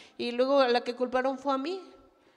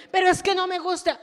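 whiny complaint; 6 semitones higher, 9 dB louder than usual. Acted. Voicing a whiny objecting believer.

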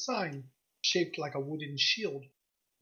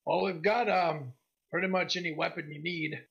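lightly voiced gruff woman shopkeeper; a hint of gruff merchant. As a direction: greet a customer in a mildly gruff voice. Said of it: "she's got this gruff voice".

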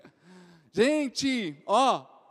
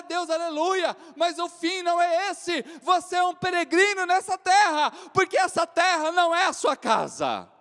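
loud, raised preaching proclamation; preaching at full force; 6 semitones higher, 5 dB louder than usual. Acted. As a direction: proclaim it to the congregation. Pregação em volume alto. (pregação enfática em voz alta)

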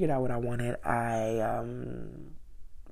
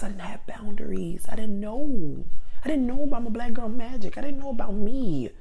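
passionate; 8 semitones higher, 9 dB louder than usual. Real, not acted. Passionate self-realization rant.

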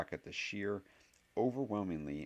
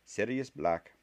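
almost hissing; 5 semitones higher, 6 dB louder, slower than usual. A narrator's reading. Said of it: "almost hissing the name".

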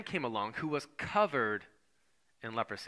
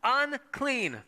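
a hint of a leper calling a warning, higher; mild mock cry of unclean; lightly voiced leper calling out unclean; leper's cry; 9 semitones higher, much slower than usual. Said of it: "they would have to cry out".

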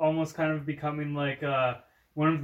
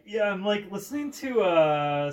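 imitating excited fan; 2 semitones higher, 3 dB louder than usual. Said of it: "you're like".

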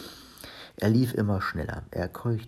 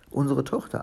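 higher, proud announcement; proud new mother's answer; 5 semitones higher than usual. Acted. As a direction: present it with pride, pitch lifted. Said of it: "antwortete Olli stolz".

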